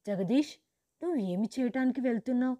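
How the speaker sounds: loud, fast, panicked shout. Acted. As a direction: cry out to stop him, fast and high. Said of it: "గట్టిగా అరుస్తూ చెప్పాను". (గట్టిగా అరుస్తూ)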